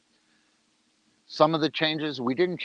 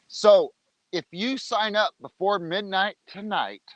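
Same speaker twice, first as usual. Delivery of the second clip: televangelist voice; 7 semitones higher than usual. Real, not acted. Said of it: "I sound like a televangelist".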